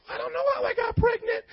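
high, put-on voice pleading ignorance; Mary voiced as a mock liar, high; mock innocent. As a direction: squeak it out like a fake innocent. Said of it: "she could lie and be like".

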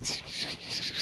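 imitated shushing bursts; rushing whoosh. Preacher shows everything flooding into the mind, whooshing sound. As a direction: make a quick run of whooshing shushes.

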